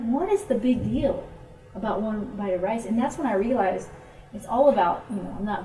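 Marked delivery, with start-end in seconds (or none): 0.0-2.9 exasperated protest. Retold or imitated. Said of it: "I was so upset".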